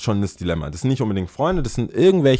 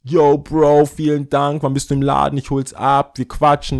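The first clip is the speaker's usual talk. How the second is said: higher-pitched, chummy bro greeting; eager mock acquaintance; 4 semitones higher, 4 dB louder than usual. Acquaintance thanking the shoe hook-up, mock-eager and chummy. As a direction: imitate an eager buddy, voice lifted.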